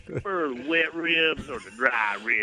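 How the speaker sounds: slow Southern Tennessee drawl; Tennessee accent. Shown as a demonstration. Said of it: "Say this".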